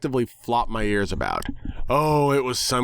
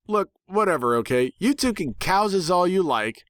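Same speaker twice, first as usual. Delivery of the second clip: much higher, fed-up pony voice; exasperated tomboy pony; 9 semitones higher than usual. Acted. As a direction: brush them off like an annoyed cartoon pony. Rainbow Dash exasperated in character.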